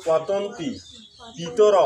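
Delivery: পতন্তি পিতর word by word; correct pronunciation demo. Shown as a demonstration. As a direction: pause between পতন্তি and পিতর. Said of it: "তারপরে এখানে হবে".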